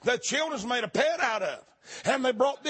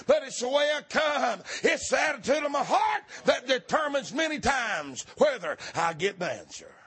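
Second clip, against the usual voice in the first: full-force preaching; 3 semitones higher than usual. Acted. Preacher exhorting the church to keep knocking. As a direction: drive it home to the congregation. Preacher's held shouting climax.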